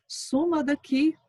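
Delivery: said out loud and firm, slowly; loud, slow Suma daqui. A narrator's reading. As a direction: push her away with a loud voice. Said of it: "Mãe, em voz alta".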